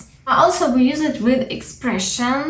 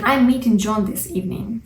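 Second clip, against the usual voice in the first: faster quoted repeat; quick quoted example; faster than usual. Shown as a demonstration. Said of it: "What does it mean".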